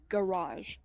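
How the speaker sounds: garage said slowly, as if testing it; garage, rolled round the mouth; careful "garage". Acted. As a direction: try the word garage out on the tongue. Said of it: "kinda roll her tongue in her mouth for a second".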